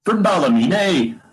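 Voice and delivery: slow, high, swooping Ballymena accent; exaggerated Ballymena lilt, pitch leaping up; put-on Ballymena accent. Shown as a demonstration. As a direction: stretch it out in a sing-song mock Ballymena accent. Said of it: "doing the Ballymena accent".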